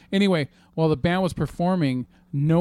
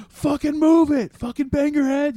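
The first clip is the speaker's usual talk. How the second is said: loud, high lead-singer yell; mock angry frontman shouting, drawn out; imitated yelling; 13 semitones higher, 6 dB louder, slower than usual. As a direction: yell at a motionless crowd from the stage. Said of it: "to yell at the audience".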